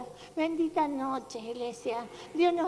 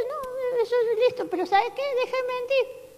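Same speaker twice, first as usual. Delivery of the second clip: God's voice; 8 semitones higher than usual. Acted. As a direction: speak as God, firmly stopping the lie. God replies in the sermon. (la voz de Dios, aguda y fuerte, corrigiendo)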